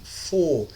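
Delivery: "for" with the O stretched out slowly; "for" drawn out as a long open foh; lengthened O. Shown as a demonstration. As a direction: hold the vowel of "for" long. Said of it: "a gente alonga mais o som do O".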